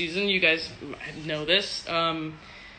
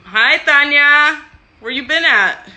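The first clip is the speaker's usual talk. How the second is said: much higher and louder, stretched hi; excited greeting; 10 semitones higher, 14 dB louder, slower than usual. Real, not acted. Greeting a fan who joined the stream, excited call-out. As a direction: sing out to a friend you spotted.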